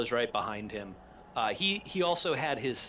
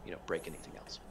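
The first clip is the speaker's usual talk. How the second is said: reassuring; 3 semitones lower, faster than usual. Acted. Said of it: "He says".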